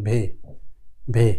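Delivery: ভে said as the German W; teacher drilling ভে twice; German letter sound. Shown as a demonstration. German W letter name. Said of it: "এটাকে বারবার মনে রাখবেন".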